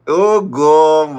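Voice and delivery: real laughing outburst. Real, not acted. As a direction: laugh through oh God. Laughing reaction to clip.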